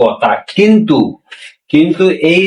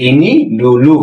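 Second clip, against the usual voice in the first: slow, drawn-out "What ইনি ডুলু", each word spaced; slow teaching demo; much slower than usual. Shown as a demonstration. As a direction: spell it out slowly for the class. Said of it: "মানে এইটা আগে করো".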